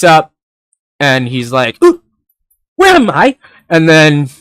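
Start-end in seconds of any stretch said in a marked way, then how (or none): 1.8-3.4 put-on high, dazed kid asking where he is; groggy kid voice. Kid waking up in a strange bed asks where he is, high and dazed. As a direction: wake up lost and a bit hammed.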